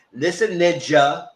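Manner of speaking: slow, drawn-out warning; mock stern pastor. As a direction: stretch each word like a lecturing preacher. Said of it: "And Pastor Jeff said".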